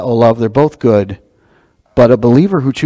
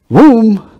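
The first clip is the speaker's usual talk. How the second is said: emphatic boom; 10 semitones higher, 6 dB louder than usual. Real, not acted. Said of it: "preacher's exclamation".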